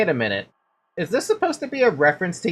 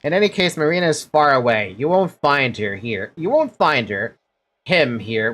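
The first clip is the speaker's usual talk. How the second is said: scornful character. Acted. Streamer voicing a character sneering at a cowardly father, lightly scornful. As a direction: look down on him with contempt.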